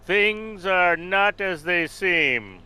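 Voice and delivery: bold heroic voice. Acted. In-character persuasion, grand delivery.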